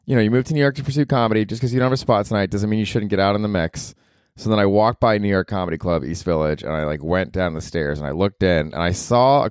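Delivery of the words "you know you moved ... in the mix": higher, pumped-up pep talk to himself; mock motivational self-talk. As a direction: gee himself up, half mocking. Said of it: "So I'm like".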